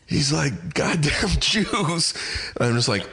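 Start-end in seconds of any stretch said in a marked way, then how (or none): 0.7-2.1 high, drawn-out mock yell; imitated yelling. Retelling a friend playing a villain in a self-tape, mock yelling. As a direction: mimic the actor's rant, stretched and restrained in volume. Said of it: "he's in my fucking apartment yelling".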